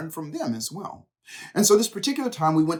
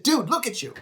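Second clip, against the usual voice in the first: retold confrontation; 7 semitones higher than usual. Friend confronts him, retold.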